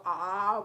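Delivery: loud, drawn-out mock "aah"; pretend open-mouthed "ah". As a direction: act out being about to misbehave with the mouth. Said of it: "Now let's go".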